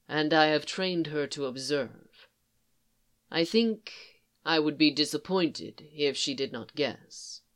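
even, composed commander speaking gently; a lightly voiced Thrawn, calm; Thrawn, calm and measured. Thrawn voiced low and soft.

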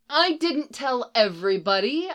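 mildly defensive objection; protesting. A narrator's reading. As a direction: protest it, pitch lifted. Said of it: "Iris protested".

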